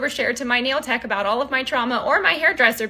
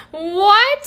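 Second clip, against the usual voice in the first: high laugh into a louder what; laughing disbelief; 8 semitones higher, 5 dB louder than usual. Real, not acted. Wife laughing at husband's rant, high and disbelieving. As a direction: crack up and ask.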